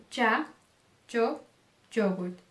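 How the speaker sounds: ya, yo, yogurt beginning with "dj". Shown as a demonstration. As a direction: hit a "dj" at the start of ya, yo, yogurt. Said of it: "Você pode pronunciar ele como". (Y com som de DJ em ya, yo, yogurt)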